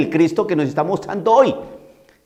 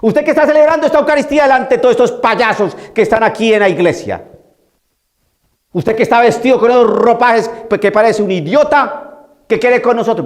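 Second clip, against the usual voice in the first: possessed man shouting; 4 semitones higher than usual. Retold or imitated. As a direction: jeer at the priest from the pews. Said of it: "Más o menos".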